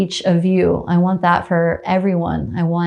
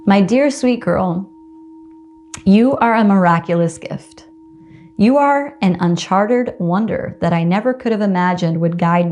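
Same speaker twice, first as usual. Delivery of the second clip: tender letter read aloud. Acted. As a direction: read it like a love letter to yourself, gently. Reads aloud her letter to herself.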